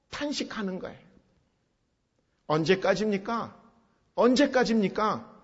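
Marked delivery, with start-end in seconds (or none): 2.5-5.3 weary question growing into anguished protest; lamenting. Acted. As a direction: lament building to an insistent appeal. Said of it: "하고 탄식하는".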